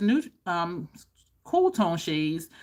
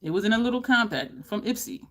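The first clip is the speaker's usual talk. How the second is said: ordinary talk, nothing marked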